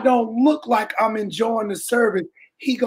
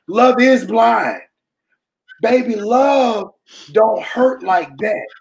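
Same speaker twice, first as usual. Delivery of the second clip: preaching; slower than usual. Real, not acted. Building to preaching.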